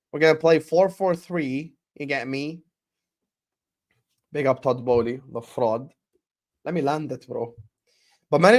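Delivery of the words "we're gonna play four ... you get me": a hammed-up, slightly higher, smug voice; mocking Chelsea fan. Mocking Chelsea fans bragging about their formation, smug parody. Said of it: "That's what they will say".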